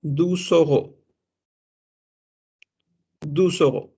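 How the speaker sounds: "deux euros" with a z linking sound, said as "deuzeuros"; French liaison. Shown as a demonstration. Teacher demonstrating French liaison to class. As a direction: carry the x into "euros". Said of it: "y decimos".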